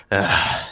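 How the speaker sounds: low exasperated groan; acted annoyed sigh. Guard fed up with prisoner, audible sigh. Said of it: "he's audibly sighing".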